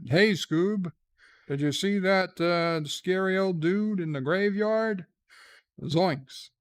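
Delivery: a hint of a goofy sitcom sailor; lightly goofy castaway read; Gilligan voice. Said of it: "what did Gilligan sound like".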